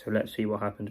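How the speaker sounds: muffled voice, like through a hand. Real, not acted. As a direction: speak muffled, hand over mouth. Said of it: "Sorry it's a bit of a muffled one".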